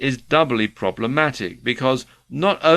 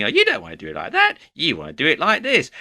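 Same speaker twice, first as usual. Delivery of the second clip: high, fast, whiny know-it-all; nasally nag voice; 5 semitones higher, much faster than usual. Retold or imitated. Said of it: "irritating little nasally voice".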